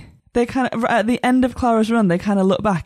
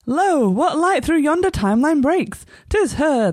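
hammy stage actor; 5 semitones higher than usual. Acted. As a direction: overblown Shakespearean declaiming. Shakespearean parody of synopsis.

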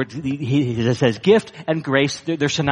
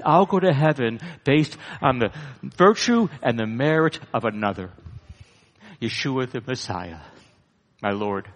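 humble smiling answer. Acted. Believer smiles, answers humbly.

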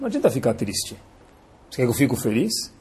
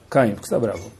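softer, tender question by name; gentle asking; 8 semitones lower, 7 dB quieter, faster than usual. Shown as a demonstration. Hashem gently asking Caim why he is angry, soft and tender. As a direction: ask him softly, like a caring father.

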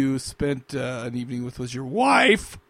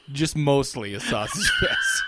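laughing; slower than usual. Real, not acted. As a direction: laugh breaks into the words. Laughing through the echo.

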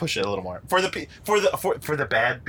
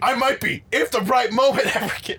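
mock yell Rhett; 4 semitones higher than usual. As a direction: yell the line like a ham actor. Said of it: "that's how he acts in the movie".

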